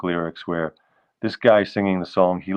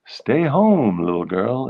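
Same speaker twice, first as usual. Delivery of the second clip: a bit menacing; 3 semitones higher than usual. Acted. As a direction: give it a slight playful threat. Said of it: "It sounds a little bit menacing".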